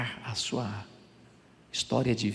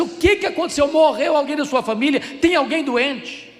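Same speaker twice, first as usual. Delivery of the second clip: high, loud, urgent questioning; alarmed question; 11 semitones higher, 6 dB louder than usual. Retold or imitated. Seminarian bursting in on a crying colleague, alarmed. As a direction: rush in fearing someone died.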